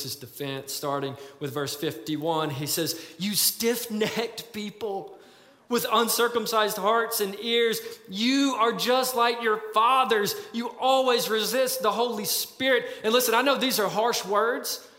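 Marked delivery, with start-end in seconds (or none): 3.2-12.9 slow, weighty reading of the rebuke; solemn scripture reading. Acted. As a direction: read it like a solemn charge.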